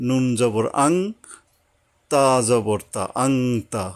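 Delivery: আং then তা, blended into one word; joined reading. Shown as a demonstration. Teacher showing how sukun joins letters. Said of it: "পূর্ববর্তী অক্ষরের সাথে মিলাইয়া উচ্চারণ করতে হবে".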